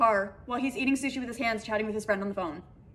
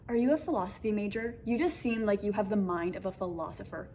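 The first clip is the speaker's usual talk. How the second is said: dead serious; 2 semitones lower, 4 dB quieter than usual. Retold or imitated. Retelling a date's question about philosophy, dead serious. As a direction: deliver it gravely, like a solemn question. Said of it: "So serious".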